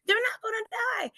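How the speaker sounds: high-pitched refusal to accept it; insistent denial. Retold or imitated. Acted denial to family.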